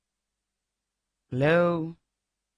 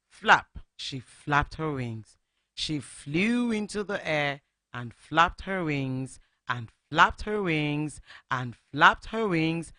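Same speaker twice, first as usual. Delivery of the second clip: put-on lively read-aloud for children; storybook narration. A narrator's reading. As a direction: tell it like a bedtime story to little listeners. Radio host reads story to children.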